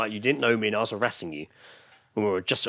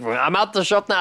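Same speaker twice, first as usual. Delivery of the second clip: mock flustered self; 9 semitones higher, 3 dB louder than usual. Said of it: "I was like".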